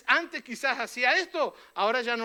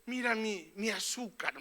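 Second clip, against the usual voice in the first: imitated soft complaint; 6 dB quieter than usual. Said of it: "me dice alguien".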